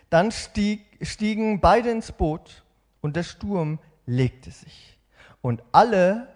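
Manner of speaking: slow, expressive storytelling read; dramatic Bible reading. Acted. Preacher reading Matthew to the congregation with drama. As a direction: read the scripture with feeling and action. Reads Bible passage with feeling.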